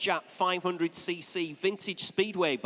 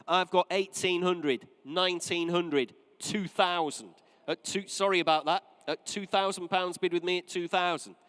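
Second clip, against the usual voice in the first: auctioneer calling bids. Real, not acted.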